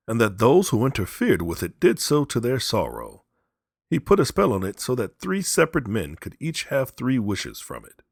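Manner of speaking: loud, grave storyteller soldier; impressive soldier. Acted. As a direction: awe them with the tale. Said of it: "His manner was so impressive".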